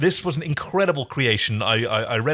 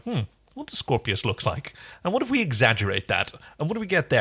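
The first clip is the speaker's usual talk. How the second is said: musing designer. Retold or imitated. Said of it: "went back from like".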